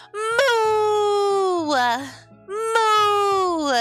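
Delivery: high cutesy mooing; cute mock cow moo. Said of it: "I'm a Valentine's Day cow".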